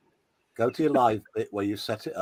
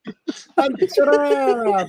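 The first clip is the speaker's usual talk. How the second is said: drawn-out ta-da; 12 semitones higher, 4 dB louder, much slower than usual. Pretend. Showing the pasted link.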